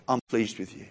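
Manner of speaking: soft, low, reassuring; gentle approval. Acted. God affirming a doubting believer, softly and gently.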